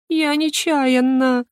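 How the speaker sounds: a touch of sobbing through it; sobbing excuse. A narrator's reading. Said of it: "Девушка разразилась рыданиями".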